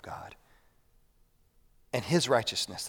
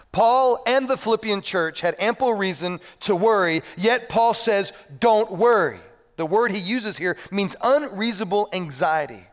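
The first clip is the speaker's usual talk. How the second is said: loud, raised preacher's voice; emphatic sermon delivery, pitched up; forceful preaching; 7 semitones higher, 6 dB louder than usual. Real, not acted. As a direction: drive it home to the congregation.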